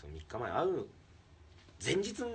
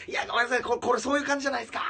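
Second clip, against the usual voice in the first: high, loud, fast excuse; flustered joking apology; 10 dB louder, faster than usual. Retold or imitated. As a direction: rattle it off high and loud in mock panic. (高く速く慌てて謝る)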